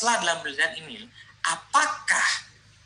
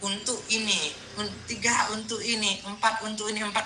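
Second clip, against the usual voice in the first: higher, lightly mocking recital; imitating students' lists; 3 semitones higher, 4 dB quieter than usual. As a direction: parody students listing aims by rote. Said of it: "Kan Bapak Ibu kan". (menirukan daftar mahasiswa yang monoton)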